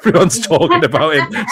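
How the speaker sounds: laughing at the slogan he just chanted. Real, not acted.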